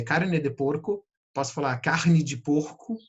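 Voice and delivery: "carne de porco" in another Brazilian accent, "kahnɪ d͡ʒɪ"; regional accent. Shown as a demonstration. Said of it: "eu posso falar carne de porco". (sotaque regional brasileiro)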